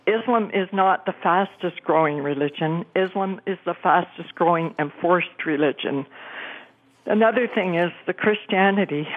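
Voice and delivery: breathless, rushing the words; talking fast, short on air; out of breath. Real, not acted. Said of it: "I'm out of breath 'cause I'm talking so fast".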